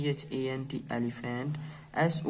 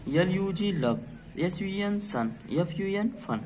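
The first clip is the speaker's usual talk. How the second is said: spelling aloud; 5 semitones higher than usual. Shown as a demonstration. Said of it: "तो चलिए इसको पढ़ के देखते हैं".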